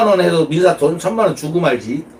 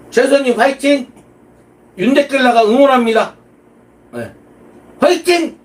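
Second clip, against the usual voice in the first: cheering; 7 semitones higher than usual. Real, not acted. Cheering on loudly.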